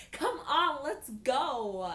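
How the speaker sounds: high, loud, playful nag; exasperated urging. Acted. Girl hurrying the boy out, loudly urging. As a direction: push them along with a loud whine. Acted urging after a punch.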